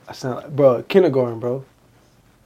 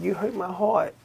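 put-on little kid voice; 6 semitones higher, 7 dB quieter than usual. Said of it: "the little kid, he was like".

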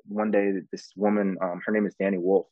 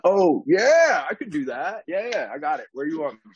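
higher, breezy, pretending to know; fake confident; 7 semitones higher, 4 dB louder than usual. At his first audition, bluffing confidence to the casting team in a higher voice. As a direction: bluff it like you've done this before.

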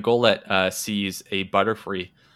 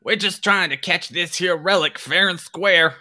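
high, loud, slow folksy put-on voice; defensive thief; 9 semitones higher, 4 dB louder, slower than usual. Second thief justifying the kidnapping to the party, high folksy protest. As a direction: insist on your innocence, drawn out. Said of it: "the other one goes".

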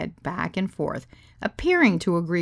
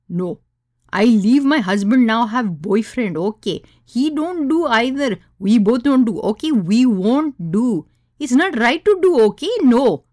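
put-on loud, agitated Indian accent, higher pitched; thick Indian accent; 5 semitones higher, 8 dB louder than usual. Guest refusing outright, loud thick Indian accent. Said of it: "in her thick Indian accent".

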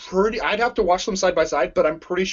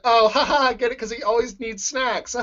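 amused; 6 semitones higher, faster than usual. Retold or imitated. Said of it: "I was like".

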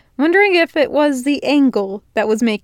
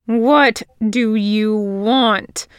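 demand; much slower than usual. Acted. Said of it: "Virgil demanded".

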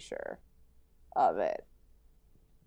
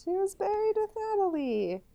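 wistful high-pitched aww; tender gushing; 10 semitones higher than usual. Real, not acted. Gushing over lovers buried together.

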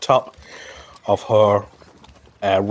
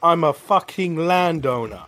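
high, scornful brush-off; armored woman telling guards to get lost; defiant Nord woman; 8 semitones higher than usual. Acted. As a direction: shoo the guards away with contempt. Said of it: "She goes".

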